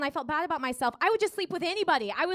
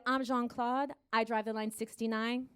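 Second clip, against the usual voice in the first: low, soft seductive murmur; husky come-on from the driver's seat; 4 semitones lower, 7 dB quieter than usual. Pretend. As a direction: croon like a proud naked bus driver.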